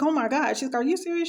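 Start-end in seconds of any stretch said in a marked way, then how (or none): 0.0-0.5 higher retold gasp of disbelief; shocked. Nurse hearing about the orderly, shocked. 0.8-1.3 high-pitched incredulous question; shocked disbelief. Retold or imitated. Nurse hearing patient's complaint, shocked.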